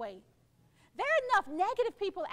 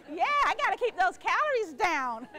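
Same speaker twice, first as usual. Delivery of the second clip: louder, words through real laughter; laughing; 5 dB louder than usual. Real, not acted. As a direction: joke while still laughing. Joking while still laughing.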